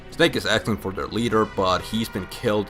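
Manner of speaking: normal talking voice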